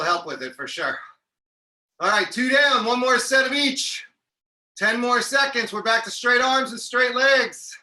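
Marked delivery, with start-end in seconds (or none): 2.0-7.7 loud coaching call. Real, not acted. Coach pushing class through final set.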